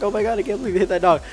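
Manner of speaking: put-on high, fast girlish fluster; imitated freaking out. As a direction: mimic teenage girls in a flap. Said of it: "girls are still freaking out".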